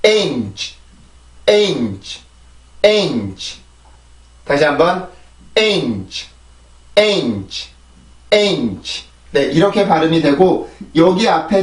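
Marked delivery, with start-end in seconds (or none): 0.0-9.0 "Ange" as "einj", one falling syllable. Shown as a demonstration. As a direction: model "ange": long glide, n, light final j. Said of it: "자, 이 발음이 들어갑니다". ("ange"를 '에인쥐' 한 음절로 내려 발음)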